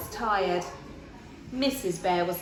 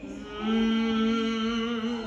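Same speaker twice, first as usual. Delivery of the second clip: fridge hum. A narrator's reading. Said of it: "went the refrigerator".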